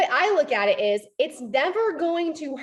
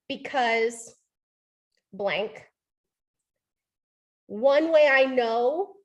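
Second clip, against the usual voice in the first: slow template; slower than usual. Shown as a demonstration. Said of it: "you insert however you feel".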